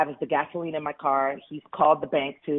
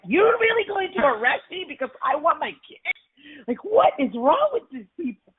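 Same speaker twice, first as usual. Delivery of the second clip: high, pleading mock yell at the police; high-pitched outraged disbelief, retold; retold desperate scream; 11 semitones higher than usual. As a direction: raise the pitch high in disbelief, half-yelled. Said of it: "And I was screaming".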